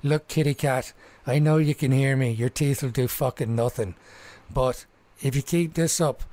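lightly voiced swaggering threat to the cat; cocky threat. Mickey threatening the cat that pins him, cocky sneer. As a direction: talk down to the big cat, sneering. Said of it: "Mickey says".

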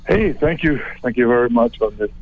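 breathless, winded speech; catching his breath between words. Real, not acted. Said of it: "You sound like you're out of breath".

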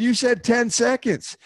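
slow, high, insistent retort; indignant. Retold or imitated. Rider insists to his friend, slow and indignant. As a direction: spell it out like he's the idiot. Retold argument with Douglas.

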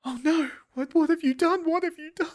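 high, hammed-up anguish; Juliet waking in horror. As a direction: wail it in a piping stage-heroine voice. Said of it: "Juliet wakes up".

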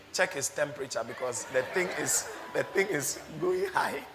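chuckling through a quoted instruction; laughing retelling. Retold or imitated. Doctor telling nurses to check temperature, retold laughing.

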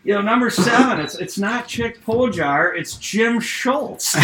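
a chuckling boss dictating a roster change; amused coach. Retold or imitated. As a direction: coach to the secretary, laughing through it.

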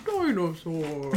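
slow, low dinosaur voice. Retold or imitated. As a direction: drag it out like a lumbering dinosaur. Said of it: "This is a bad voice".

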